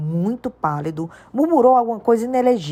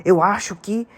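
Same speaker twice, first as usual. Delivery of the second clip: big, emphatic giant's voice, building; giant Hagrid; 5 semitones higher than usual. A narrator's reading. Hagrid telling Harry about his world, emphatic. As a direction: Hagrid explaining, more worked up each phrase.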